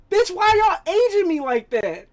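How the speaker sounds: high, loud, laughing through it; laughing complaint. Real, not acted. To friends about feeling old, laughing high complaint. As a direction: whine it while cracking up.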